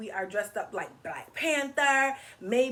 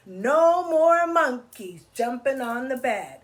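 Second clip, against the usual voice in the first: chanted, slow doctor's warning; doctor's line; 5 dB louder than usual. Acted. Teacher chanting the doctor's line for the children. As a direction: lay down the doctor's rule in sing-song. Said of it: "what the doctor say?".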